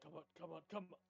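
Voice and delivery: hushed, urgent muttered pleading; whispering. Acted. Player voices Martyr whispering encouragement, hushed. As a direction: softly urge it along under your breath. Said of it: "Martyr's whispering".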